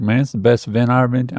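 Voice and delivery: quick, loosely imitated Louisiana accent; half-landed Louisiana accent, said briskly; attempted Louisiana accent. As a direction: have a rough go at a Louisiana accent. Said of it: "I'm not doing your accent right".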